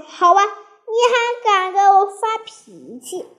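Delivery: high-pitched, affronted comeback; indignant challenge. A narrator's reading. Parrot challenges Maomao for losing temper, indignant.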